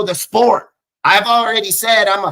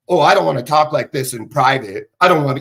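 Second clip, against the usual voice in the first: lower-pitched mock whining excuse; mocking imitation; 4 semitones lower than usual. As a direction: mimic a coward making excuses. Mocks what critics tell him privately.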